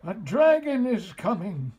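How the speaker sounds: high, loud alarm call; mayor yelling orders to the town; panicked yell. A narrator's reading. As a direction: shout the alarm like a frantic mayor. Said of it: "yelled the mayor".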